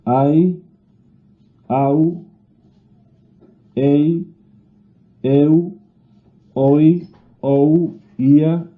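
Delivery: "ai, au, ei, eu" and the rest, each vowel pair glided as one syllable; diphthongs in one breath-pulse. Shown as a demonstration. Teacher listing the Castilian diphthongs, each pair said as one syllable. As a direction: list "ai" to "ui" as separate single-syllable glides, pausing between. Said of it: "de un solo golpe de voz".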